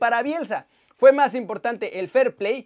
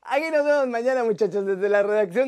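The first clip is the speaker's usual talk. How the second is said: trying not to laugh. Real, not acted. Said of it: "ya no me aguanto la risa".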